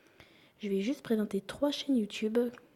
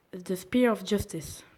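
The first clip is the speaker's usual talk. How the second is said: slow, careful English accent on the title; proudly put-on English accent; mock English accent; 4 dB louder, slower than usual. Real, not acted. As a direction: ham up an English pronunciation of the song name. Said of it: "j'ai un très bel accent anglais".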